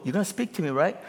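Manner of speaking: rising, wheedling repeated plea; hammed-up self-absorbed pleading; mock needy worshipper. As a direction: beg God to talk about you. Mocking self-centered worshipper.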